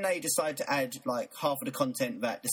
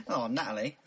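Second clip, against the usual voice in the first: lightly mimicked Australian "Oh, Natalie"; Australian accent; 3 semitones lower than usual. Shown as a demonstration. Co-host repeating the name for laughs, mock Australian accent. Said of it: "when I hear Australians say the".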